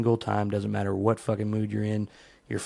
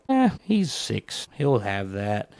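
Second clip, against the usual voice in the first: dismissive shrug; slower than usual. Retold or imitated. Parent shrugging off the kid's imaginary friend, dismissive. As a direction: wave off the worry like it's nothing. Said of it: "And you're just like".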